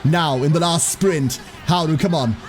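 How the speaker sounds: lively play-by-play, building toward the finish; race commentary. Real, not acted. Streamer calling the last sprint for Haru, race commentary. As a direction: call the sprint, urging the horse on.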